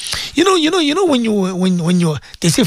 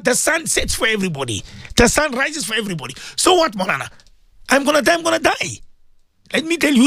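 raised, fervent sermon voice; impassioned preaching; 6 semitones higher than usual. Acted. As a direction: preach it out to the radio listeners. Radio preacher exhorting listeners.

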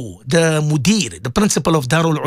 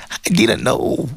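slow awed whisper, a laugh at the start; slower than usual. Retold or imitated. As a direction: hush it like a secret, slowly. Guest's awed reply retold.

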